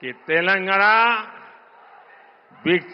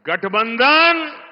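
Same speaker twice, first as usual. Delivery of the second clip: slow and deliberate; 4 semitones higher, slower than usual. Real, not acted. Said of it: "घोटाला बंधन".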